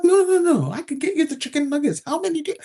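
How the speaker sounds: eager white guy. Retold or imitated. White male offering to fetch the chicken nuggets, high and eager. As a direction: play an overeager guy rushing to help. Same man insisting.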